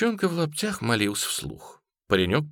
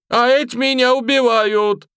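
wailing plea; 7 dB louder than usual. A narrator's reading. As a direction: cry out in despair. Peasant wails on his knees. (высокий громкий вопль)

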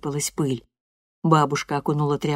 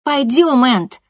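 sulky retort; 8 semitones higher, 8 dB louder, slower than usual. Acted. Loreda's voice, storming off.

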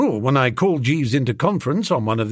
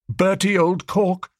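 mildly earnest, higher-pitched appeal; 6 semitones higher than usual. A narrator's reading. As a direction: make an earnest appeal to a friend. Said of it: "said Biffy earnestly".

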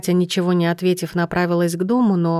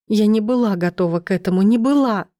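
urgent panting report; 3 semitones higher than usual. Acted. Героиня рыдает в машине. (отчаянный срывающийся крик)

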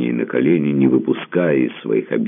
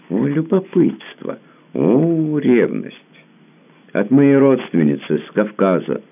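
high, playful mock exclamations; teasing; 11 semitones higher than usual. A narrator's reading. Tamara teasing her jealous lover, high playful mockery. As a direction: tease him, voice lifted high and slow.

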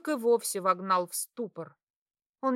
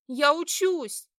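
high, slow wailed protest; wailing cry; 6 semitones higher, 5 dB louder, slower than usual. A narrator's reading. Daughter wailing back at her mother. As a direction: wail it out near tears. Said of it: "взвыла я".

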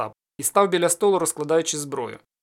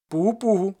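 louder, higher ringing hail; cossack call; 4 semitones higher, 4 dB louder than usual. Acted. Ostap repeating the call at the gate, loud. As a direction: call it out across the yard. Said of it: "загукав за січовим звичаєм".

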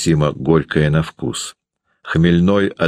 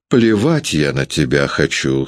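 calm, even indifference; husband calmly dismissing his wife. Acted. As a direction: say it unbothered. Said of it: "спокойно сказал".

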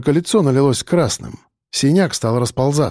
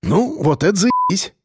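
grinning; 6 semitones higher than usual. A narrator's reading. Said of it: "оскалился Рыжий".

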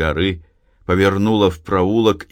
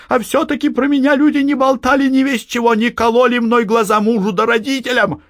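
high, loud outpouring; rattling on; 3 dB louder than usual. A narrator's reading. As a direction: blurt it all out. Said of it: "затараторила". (затараторила высоко и громко)

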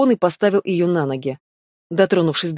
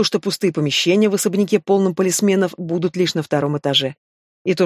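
plain reading voice

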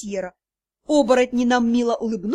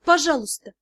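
quieter, gentler plea; softer pleading; 2 semitones higher than usual. Acted. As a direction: ask again more softly. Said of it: "я с мольбой посмотрела".

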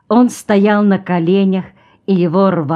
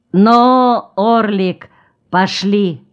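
urging a horse; 3 semitones higher, much slower than usual. Acted. Rider urging his horse on.

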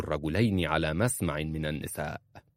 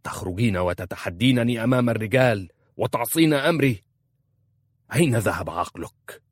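louder, scolding shout; husband scolding his wife inside the tent; angry shout; 3 semitones higher, 6 dB louder than usual. A narrator's reading. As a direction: scold her for defying you. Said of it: "صاح فيها".

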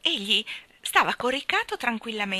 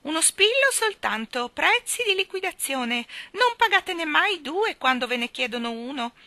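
high, loud mother-hen cry; Miss Calicò; 8 semitones higher, 6 dB louder than usual. Acted. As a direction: cluck out your sales cry, high and loud. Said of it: "gridò la signorina Calicò con la sua voce da chioccia".

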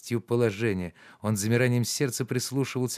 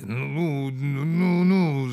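building louder and higher shouts; thundering; 5 semitones higher, 5 dB louder, much slower than usual. Acted. Zakhar shoos Anisya from the door, thundering. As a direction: drive her off with booming threats. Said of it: "загремел он".

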